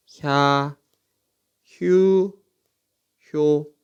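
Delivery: 혀, 휴, 효 held evenly as single syllables, hya, hyu, hyo; syllable demonstration. Shown as a demonstration. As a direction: teach 혀, 휴, 효 one by one, pausing between. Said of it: "이렇게 읽겠죠".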